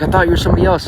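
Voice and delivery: high-pitched mock female voice; imitated apologetic woman. Woman explaining her mistake, high imitation. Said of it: "She's like".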